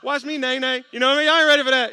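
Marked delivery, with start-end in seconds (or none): 0.0-0.8 loud, high hyped celebration; hammed-up party cheer; celebrating brother. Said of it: "I thought". 1.3-1.9 teasing boast. Real, not acted. Teasing the congregation.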